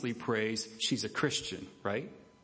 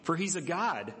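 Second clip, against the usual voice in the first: mocking; 4 semitones higher than usual. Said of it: "Elijah started mocking them".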